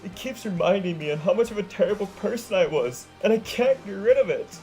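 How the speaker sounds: tearful wail to her friends. Acted. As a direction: wail out the despair. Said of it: "Sunset wailed".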